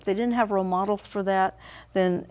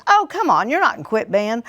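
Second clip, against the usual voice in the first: exasperated retort; 3 semitones higher, 4 dB louder than usual. Retold or imitated. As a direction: replay the argument, sharp and raised. Retold argument with son.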